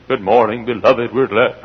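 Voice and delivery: subdued, slightly low mock greeting; mock staid preacher. Preacher mocking staid adult ministers, subdued imitation. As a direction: lightly imitate a lifeless formal preacher. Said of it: "I'm not gonna be a".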